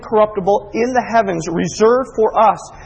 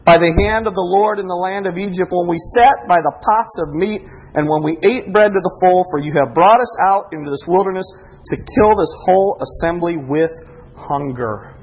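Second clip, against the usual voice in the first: lamenting. Retold or imitated. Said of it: "the children of Israel said".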